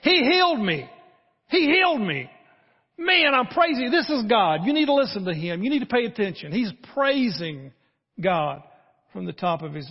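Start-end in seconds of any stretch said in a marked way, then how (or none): 0.0-6.5 high, loud ecstatic shout of a healed man; healed leper running back to Jesus, yelling with joy; joyful yelling. Retold or imitated. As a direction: shout it from the top of your lungs. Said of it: "he's yelling".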